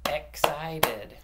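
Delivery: "Excited" split into three beats; "Excited" in distinct, measured syllables. Shown as a demonstration. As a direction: clap out "Excited" one syllable at a time. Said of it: "you gotta clap it out".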